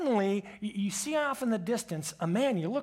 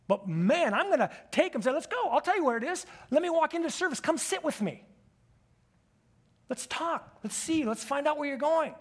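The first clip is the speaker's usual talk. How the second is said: higher, bright and urgent; eager welcome; 5 semitones higher than usual. Acted. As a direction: invite the stranger in with zeal.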